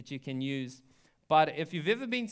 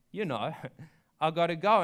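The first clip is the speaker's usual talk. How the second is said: laughing plea; 3 dB louder than usual. Retold or imitated. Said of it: "She's like".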